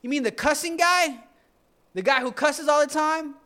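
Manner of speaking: high, loud indignant yell; outraged crowd. Retold or imitated. Townsfolk objecting to Jesus choosing Matthew, loud outraged voice. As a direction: shout it in disbelief. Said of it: "This is my other disciple, Peter".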